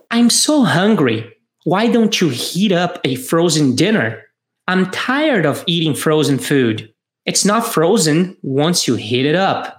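slow, careful English dialogue read for learners; slow model reading. Shown as a demonstration. Teacher reading a model dialogue to students, slow and clear.

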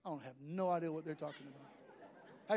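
put-on an older churchgoer muttering, lost in the slang; confused older folks. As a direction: play a baffled older churchgoer. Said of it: "everybody over thirty years old, like".

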